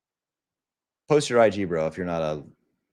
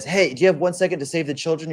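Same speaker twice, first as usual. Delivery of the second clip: charity canvasser; 8 semitones higher than usual. Retold or imitated. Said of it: "and he says".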